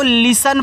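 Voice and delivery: लिसन with a silent T; लिसन spoken as lisen, T dropped; correct pronunciation. Shown as a demonstration. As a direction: say लिसन, no T sound. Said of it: "इसको लिस्टन नहीं पढ़ना".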